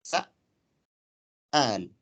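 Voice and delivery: سأل drawn out very slowly, syllable by syllable; very slow stretched word. Shown as a demonstration. Teacher modelling the word for students, drawn out slowly. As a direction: stretch سأل for the class to hear. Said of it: "على وزن فعال".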